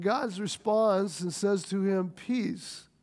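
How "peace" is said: soft, gentle single word; gentle reassurance. Acted. God telling Gideon not to fear, soft and gentle. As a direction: hush a frightened man.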